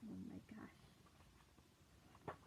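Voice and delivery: very slow breathless whisper. Real, not acted. Storyteller whispers in awe to the children. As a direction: gasp it out in a hush.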